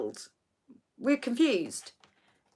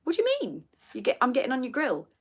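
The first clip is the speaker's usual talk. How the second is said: baffled retort; 2 semitones higher, 5 dB quieter, faster than usual. Retold or imitated. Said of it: "And I went".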